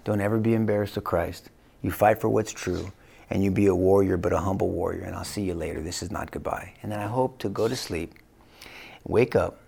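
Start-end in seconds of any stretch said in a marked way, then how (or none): 0.0-6.7 put-on low, softening goodbye to the kids; tender farewell. Dying father to his kids and grandkids, tender farewell. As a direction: speak low and steady, trailing softer toward the end.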